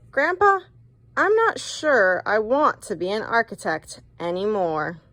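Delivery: put-on a boy giving up on his dream; young boy voice. Boy voiced in read-aloud story.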